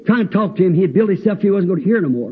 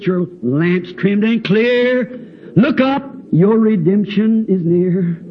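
put-on old hymn recitation. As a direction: recite the hymn solemnly to a congregation. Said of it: "As the old song says".

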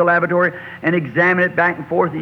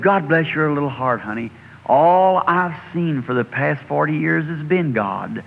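tender. Retold or imitated. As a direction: speak gently to a child. Fisherman tenderly answers boy.

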